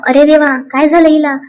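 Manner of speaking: fake alarm. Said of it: "असं नाटक करत होते".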